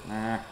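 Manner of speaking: soft imitated "ah" from the dentist's chair; imitated dental-chair noise. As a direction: mimic a patient's quiet open-mouthed "ah". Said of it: "That's a pretty good impression".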